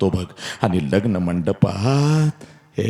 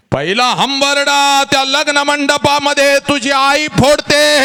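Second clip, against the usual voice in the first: high wailing cry. Shown as a demonstration. Mother's first wail retold.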